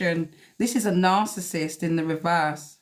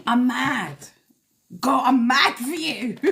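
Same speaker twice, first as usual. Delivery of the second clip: indignant outburst on someone's behalf; really mad; 5 semitones higher, slower than usual. Real, not acted. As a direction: let the anger rise in the voice. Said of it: "it's got me that enraged".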